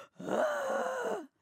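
long, high gasp; dramatic gasp. Retold or imitated. Cruiser acting out the rocky sea, dramatic gasp. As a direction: gasp as if seasick.

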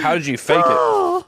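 high, slow, giggly question; laughing question. Real, not acted. Asking a friend about fainting, still laughing.

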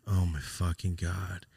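slow, drawn-out dismay; retold reaction to terrible news, slowed right down; stunned dismay. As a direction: let it sink in, word by word. Reacting to friend's cancer news.

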